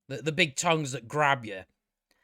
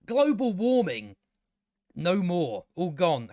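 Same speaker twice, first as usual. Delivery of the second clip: mock villain boast; slower than usual. Mocking Evelyn's speech, lightly hammed-up grandeur. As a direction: ham up the villain's grand promise. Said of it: "she says".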